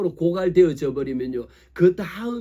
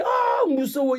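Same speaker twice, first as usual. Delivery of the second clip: mock frightened cry; 11 semitones higher, slower than usual. Illustrating feeling fear.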